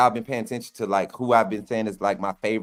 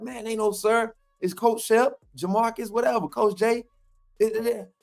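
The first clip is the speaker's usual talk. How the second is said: much higher put-on coach voice, waving off the sir; Jamarcus Shepherd voice; 11 semitones higher than usual. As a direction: imitate the coach correcting him. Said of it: "this my Jamarcus Shepherd voice".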